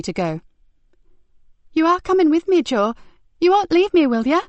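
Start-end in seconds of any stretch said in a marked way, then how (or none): 1.7-4.4 put-on high, pleading child voice; frightened boy. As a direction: beg him not to leave you. Frightened boy begs Joe.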